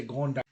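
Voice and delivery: GRAND linked to the next vowel with D, cut off; D kept as D. Shown as a demonstration. Teacher shows what not to say in GRAND, D sounded. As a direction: sound the D in GRAND, then break off. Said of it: "you don't say".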